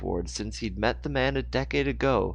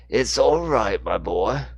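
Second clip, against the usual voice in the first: soft reassuring; 6 dB louder, slower than usual. A narrator's reading. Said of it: "Moore said softly".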